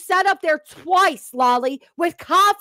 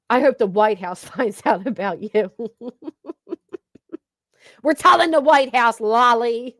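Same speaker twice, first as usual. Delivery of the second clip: taunting through laughter; laughing; 4 semitones lower than usual. Real, not acted. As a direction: laugh while you gloat.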